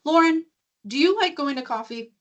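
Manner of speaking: pointed question. Retold or imitated. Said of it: "And she goes".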